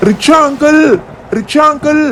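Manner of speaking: put-on child calling out to a passing rickshaw driver. Kids calling rickshaw driver again.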